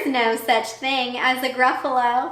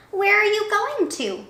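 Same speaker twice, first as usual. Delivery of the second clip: sly snake; 10 semitones higher than usual. Acted. Snake voiced.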